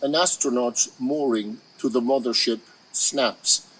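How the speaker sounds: measured poem recital, phrase by phrase with pauses; deliberate verse delivery with lingering pauses; poetry reading. Acted. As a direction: read the elegy aloud, letting each line stand. Begins reading longer poem.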